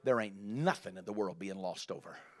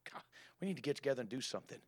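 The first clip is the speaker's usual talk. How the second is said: quick whispered aside; fast whispered flattery; 7 dB quieter, much faster than usual. Retold or imitated. Flattering brother whispering fast to the newcomer. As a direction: rush it out in a hush.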